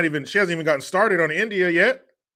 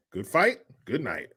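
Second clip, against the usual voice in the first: low-key quoted catchphrase; understated catchphrase sign-off; show catchphrase; 3 semitones lower than usual. Acted. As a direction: toss off a show's sign-off lightly. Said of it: "What show is that from?".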